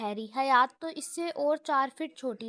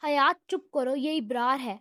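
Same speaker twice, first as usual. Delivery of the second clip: stern; 3 dB louder than usual. Acted. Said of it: "امن نے سخت لہجے میں کہا".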